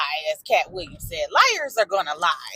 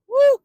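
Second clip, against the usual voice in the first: sigh and woo; 7 dB louder than usual. Real, not acted. Overwhelmed by the story.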